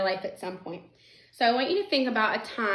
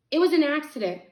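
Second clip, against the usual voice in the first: higher, louder, upset protest; sickened; 6 semitones higher, 6 dB louder than usual. A narrator's reading. Harvey explains the cat's death, sickened protest. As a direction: plead it urgently, shaken. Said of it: "sickened by what had happened".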